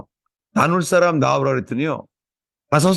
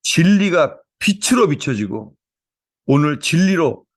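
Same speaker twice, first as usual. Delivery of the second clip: opening prayer; 3 semitones higher than usual. Real, not acted. Pastor praying over the church, fervent prayer. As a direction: pray it out over the congregation.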